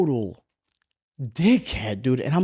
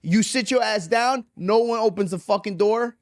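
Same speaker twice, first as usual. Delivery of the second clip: strict mother; 6 semitones higher than usual. Retold or imitated. Retold mother laying down rules.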